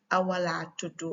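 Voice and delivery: Senegalese Wolof short reply, "tudu" ending in u; Senegalese accent. Shown as a demonstration. Teacher showing the shorter reply, Senegalese accent. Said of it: "tudu and tuda is just accent".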